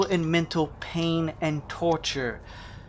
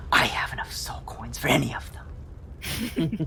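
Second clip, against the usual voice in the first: hissed whisper. A narrator's reading. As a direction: hiss it under your breath. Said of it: "she hisses at the others".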